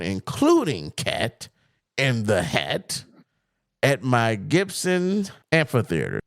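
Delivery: slow, deliberate read-out with pauses between phrases; reading a statement aloud. Acted. Podcaster reading out a comedian's rebuttal to co-host, slow measured read-out.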